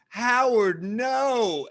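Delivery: high, loud cry of Howard, no; pleading shout. Retold or imitated. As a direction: shout him down from the crowd. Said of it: "they kept reusing that one line".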